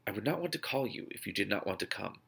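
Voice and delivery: soft and careful; a touch of careful hesitance. Acted. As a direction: tread lightly on each word. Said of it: "Carefully, I said".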